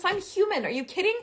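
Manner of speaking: ordinary talk, nothing marked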